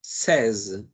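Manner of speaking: teacher modelling seize for students; French seize. Shown as a demonstration. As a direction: seize said sez, a clear z buzz at the end.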